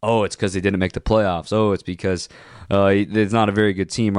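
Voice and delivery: mocking quote. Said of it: "But this isn't about".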